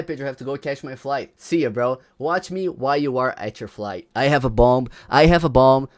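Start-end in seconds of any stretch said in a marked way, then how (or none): 4.1-4.9 mock shout. Joking bomb threat, mock shout. 5.1-5.9 mock shout. Joking bomb threat, mock shout.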